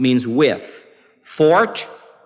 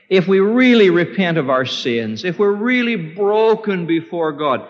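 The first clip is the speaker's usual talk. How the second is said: raised, urgent pulpit appeal; fervent appeal to the congregation; earnest preaching; 6 semitones higher than usual. Real, not acted. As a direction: press the condition home with higher pitch. Preaches with added force.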